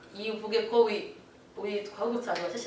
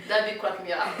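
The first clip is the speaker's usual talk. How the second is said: laughing through the words. Real, not acted. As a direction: crack up while talking. Laughing at dad's joke.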